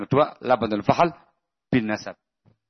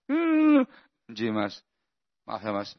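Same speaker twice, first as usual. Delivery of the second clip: meek acceptance; 2 semitones lower, slower than usual. Shown as a demonstration.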